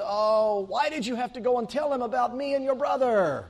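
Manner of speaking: put-on whiny old Jewish man, Yiddish lilt; Jewish accent. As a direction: plead like a put-upon old Jewish father. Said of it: "fiddler on a hot tin roof kind of Jewish accent".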